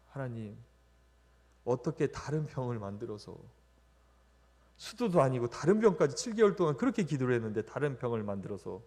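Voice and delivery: a retold cry of reproach that swells into questioning God; resentful lament. Father blaming God at the hospital, building to an anguished outcry. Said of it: "그렇게 하나님 원망을 그 자리에서 계속 했습니다".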